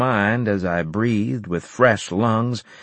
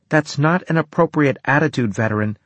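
clipped reprimand, raised voice; stern doctor; 6 semitones higher than usual. Acted. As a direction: scold the patient coolly. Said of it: "she said".

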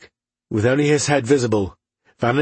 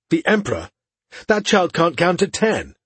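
scornful disbelief; 6 semitones higher than usual. A narrator's reading. Aladir retorts to his brother about the child Emperor, scornful.

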